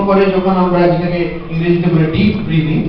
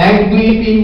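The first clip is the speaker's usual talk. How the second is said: quick count; 2 semitones higher than usual. Shown as a demonstration. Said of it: "অর্ধেক second হচ্ছে".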